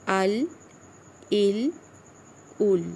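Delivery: "ال" held smoothly on the l; lam without bounce. Shown as a demonstration. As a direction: end "ال" on a steady l, no echo. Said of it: "لام کی آواز بالکل پلٹ نہیں رہی".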